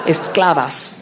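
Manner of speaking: "Esclavas" said with a clear final a; feminine with a. Shown as a demonstration. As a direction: stress the a ending in "Esclavas". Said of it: "sí, con A".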